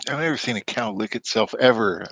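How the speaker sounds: chewing while talking; talking through a mouthful of food; mouth full. Real, not acted. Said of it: "Sorry about the chewing".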